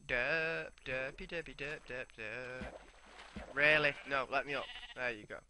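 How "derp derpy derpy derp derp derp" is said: silly singsong nonsense babble; derp mode. Pretend. Gamer idling in derp mode, silly babble. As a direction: babble goofily to yourself. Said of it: "I don't know why I'm in derp mode".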